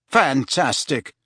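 slow, sarcastic bitterness; bitter. Acted. Harry, locked out for the night, bitter. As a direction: draw it out with mild bitterness. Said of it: "said Harry bitterly".

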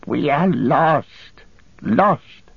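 high, very slow wailing creature voice; Gollum, lamenting. Acted. Wretched captive answering his captor, high slow wail. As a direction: wail it like a lost wretched thing.

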